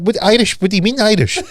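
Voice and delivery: high, incredulous echo question; retold disbelief. Friend told the statement is in Irish, baffled. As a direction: repeat it back in comic bewilderment, pitched high.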